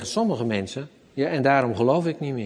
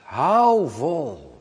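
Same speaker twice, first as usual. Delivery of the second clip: gentle repeat with a laugh; 2 semitones higher than usual. Retold or imitated. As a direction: reassure with a chuckle. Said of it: "zegt Jezus".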